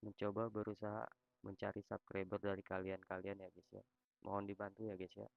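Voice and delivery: robot voice, text-to-speech reading; flat synthetic robot voice; social media tts voice. Real, not acted. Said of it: "gue pakai suara robot".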